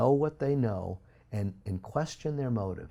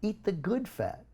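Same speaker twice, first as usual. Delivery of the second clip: mentor's French voice; 10 semitones higher, slower than usual. Retold or imitated. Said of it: "She said".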